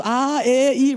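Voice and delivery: high, loud vowel sounds of agreement; playing along. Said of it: "You're just kinda going with it".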